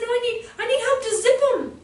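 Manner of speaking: lightly voiced small boy; imitating little boy. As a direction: play the boy who insists he needs help. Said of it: "He said".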